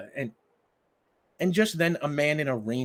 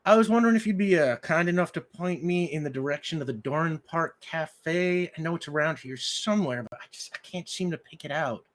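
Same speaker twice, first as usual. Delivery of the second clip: much higher, louder, halting stranger's voice; polite stranger; 7 semitones higher, 4 dB louder than usual. Acted. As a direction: stop her with a careful excuse me. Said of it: "And he says".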